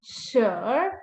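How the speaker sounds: SURE as "shrr", dipping then rising; R-like ending. Shown as a demonstration. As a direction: curl SURE into an r sound. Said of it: "has like a R sound".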